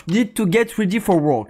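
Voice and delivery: English with a French accent. Real, not acted. Streamer reads game subtitles aloud, French accent. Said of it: "vous allez voir mon accent".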